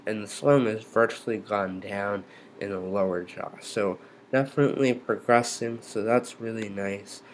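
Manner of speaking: slurred speech through a stiff jaw; numb jaw. Real, not acted. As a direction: talk like your jaw barely moves. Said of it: "I still can't speak the way that I would like to".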